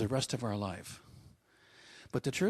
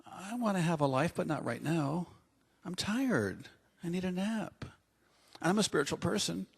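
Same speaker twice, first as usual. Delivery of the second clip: whiny lazy friend; 6 semitones higher than usual. Retold or imitated.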